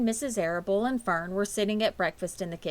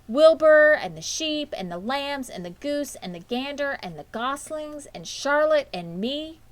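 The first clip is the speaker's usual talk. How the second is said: higher, louder eager listing; excited girl; 7 semitones higher, 6 dB louder than usual. A narrator's reading. Fern listing her barn friends to her parents, excitedly. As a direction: rattle off friends like an eager child.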